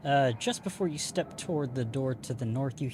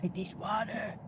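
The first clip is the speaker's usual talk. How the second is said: higher put-on plea; mock parched crab; 8 semitones higher than usual. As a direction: play a crab gasping for water. Joking as the stranded crab woman.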